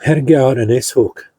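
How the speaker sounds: talking with food in mouth; words round a mouthful; mouth full. Real, not acted. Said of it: "Sorry, I got something in my mouth".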